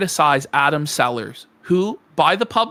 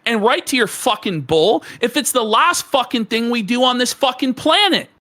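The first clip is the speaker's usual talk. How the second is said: real fury; 5 semitones higher than usual. Real, not acted. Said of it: "I'm mad as hell".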